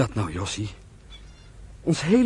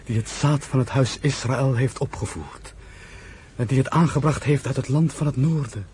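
solemn scripture recitation. Acted. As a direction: intone it like a prayer. (langzaam en plechtig, als een gebed)

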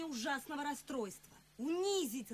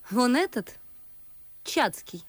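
громкий возглас; 11 dB louder than usual. Acted. Громко указывает на Чацкого.

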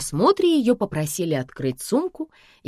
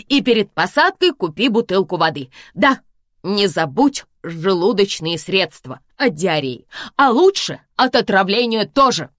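lecturing; 3 semitones higher, 5 dB louder than usual. Acted. Daughter lecturing mother.

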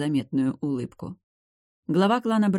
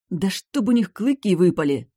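louder, a furious outburst; roaring rage; 5 semitones higher, 6 dB louder than usual. A narrator's reading. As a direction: spit the curse out in rage. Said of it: "взревела я". (гневный рёв)

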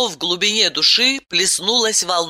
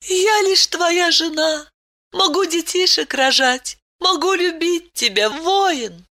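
tender cooing; 12 semitones higher than usual. A narrator's reading. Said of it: "нежно проворковала".

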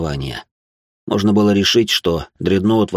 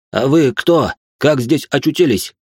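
startled; 7 semitones higher, 4 dB louder, slower than usual. Acted. Startled officer questions.

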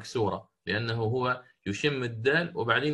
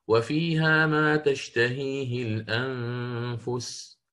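slow recitation; much slower than usual. Shown as a demonstration. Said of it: "في قوله تعالى".

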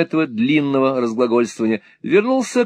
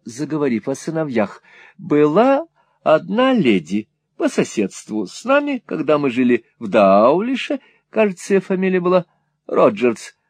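lightly voiced chatty mother, groping for a name; a touch of wandering, uncertain recollection; rambling mother reminiscing. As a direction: drift lightly from musing into doubt.

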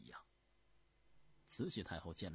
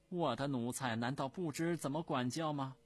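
loud, raised reproach; imperious scolding; 6 semitones higher, 9 dB louder than usual. Acted. Empress Dowager defends her servant to the prince, loud and haughty. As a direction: put him in his place.

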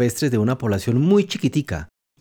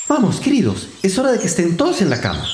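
higher, mild mock trembling canary; little trembling voice; 5 semitones higher than usual. A canary hurries her little ones to bed, small high voice. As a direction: gather the chicks in a small high voice. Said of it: "con vocecilla temblorosa".

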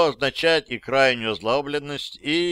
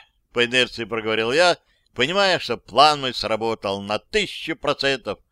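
ordinary delivery, nothing marked

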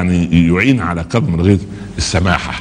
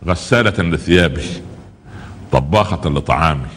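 calm forbearance; 4 semitones lower than usual. Retold or imitated. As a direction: voice a patient husband gently counting blessings. عمر يعدد فضائل زوجته بصبر. (صبر هادئ بنبرة منخفضة متأنية)

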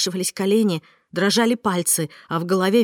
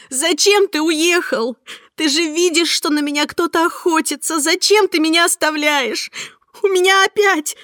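much higher, louder, near tears; frightened pleading; 9 semitones higher, 4 dB louder than usual. Acted. Heroine pleads with Mark not to leave her, frightened near tears. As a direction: beg him, voice climbing to breaking.

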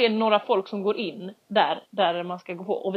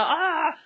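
high exasperated groan; frustrated cry; 7 semitones higher than usual. Retold or imitated. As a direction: let out a stressed cry. Stressad vid gaten. (frustrerat stön)

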